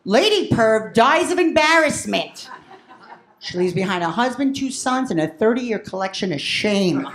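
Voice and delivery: mock newscaster, measured and low; news obituary reader. News twelve running her obituary, in mock newsreader delivery. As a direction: read it out like a local TV obit. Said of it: "how News twelve would run the obit".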